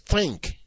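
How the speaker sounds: "think" set apart by pauses, pitch falling; single out the word "think" and let it hang; stress on THINK. Shown as a demonstration. Preacher cautioning many of us about faith, stress on "think". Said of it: "I emphasize the word think".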